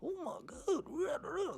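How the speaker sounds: put-on high, slow sing-song talking down to a child; mock the way people talk down to you, very high and drawn out; condescending mock. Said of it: "talking to me like if I'm a five-year-old".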